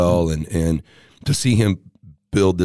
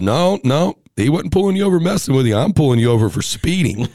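imitating the officer; 6 semitones higher, 3 dB louder than usual. Officer voiced in retold story.

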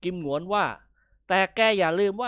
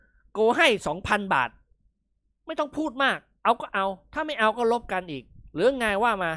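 mild firm tone; 5 semitones higher, 4 dB louder than usual. Acted. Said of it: "อาเซียพูดขึงขัง".

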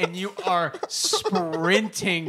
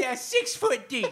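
laughing; slower than usual. Acted. Joking, sings lyric back.

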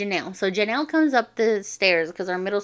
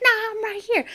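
high-pitched mock retort; pitched-up, combative comeback; retold barking back; 13 semitones higher than usual. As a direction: echo the challenge straight back, squabbling. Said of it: "barking at each other".

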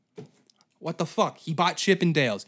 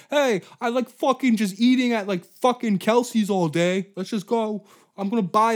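higher, louder rude rich boss voice; hammed-up arrogant boss ranting; obnoxious owner; 7 semitones higher, 6 dB louder than usual. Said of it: "It was like".

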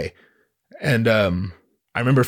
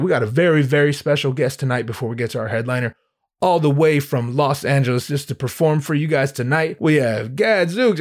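hyping emcee. Retold or imitated. Host introduces act before the headliner, lightly hyped. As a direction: build up to the act's name. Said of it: "he's gassing up".

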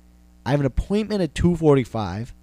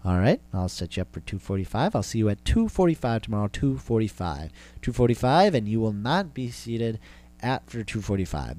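mock receptionist voice. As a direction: play the receptionist laying down the rule flatly. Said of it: "They didn't say that".

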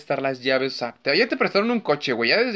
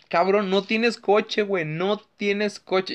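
incredulous scolding; 4 semitones higher, slower than usual. Real, not acted. Disbelief at the character.

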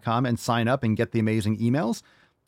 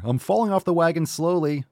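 mocking quote; 7 semitones higher than usual. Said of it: "You're sitting here".

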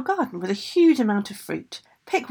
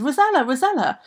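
higher, louder storybook shout; 5 semitones higher, 5 dB louder than usual. A narrator's reading. Ogress shouts after the fleeing Rosella, shouting. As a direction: shout after someone by name. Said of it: "she shouted".

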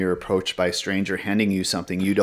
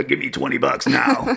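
mock demand; 6 semitones higher than usual. Pretend demand for money.

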